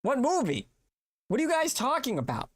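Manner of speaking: high, baffled what movie; incredulous protest. Real, not acted. Host protesting to his chat that no movie was promised, high and incredulous. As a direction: raise the pitch in disbelief at the chat.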